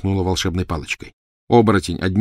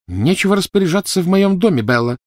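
indignant rebuke; 12 semitones higher, 4 dB louder than usual. Acted. Narcissa rebukes her sister.

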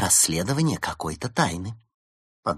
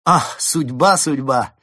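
loud, higher rapturous cry; delighted exclamation; 5 semitones higher, 7 dB louder, slower than usual. A narrator's reading. Fox marvelling at the lucky news, delighted. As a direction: exclaim as if fate has smiled.

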